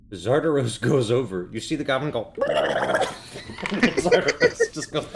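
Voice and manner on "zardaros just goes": monster cackle. Acted. Monster laugh acted.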